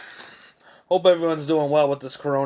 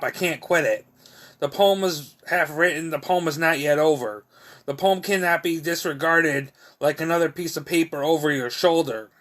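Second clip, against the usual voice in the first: measured recital, each line starting higher and falling away; poetry reading; 4 semitones higher than usual. Acted. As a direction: recite it in rhythmic, falling phrases. Reads own poem aloud.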